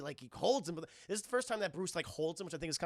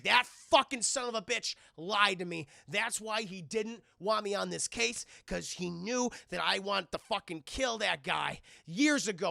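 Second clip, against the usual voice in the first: louder ranting fury; angry Robin; 3 semitones higher, 6 dB louder than usual. Retold or imitated. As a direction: Robin furious at Bruce.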